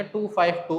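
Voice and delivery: "टू फाइव टू" as three separate digits; teacher's correction, "टू फाइव टू" digit by digit; digits read separately. Shown as a demonstration. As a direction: give each of "टू, फाइव, टू" its own beat. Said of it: "अलग-अलग पढ़ेंगे".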